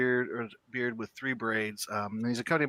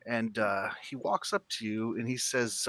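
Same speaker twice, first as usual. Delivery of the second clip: usual speaking voice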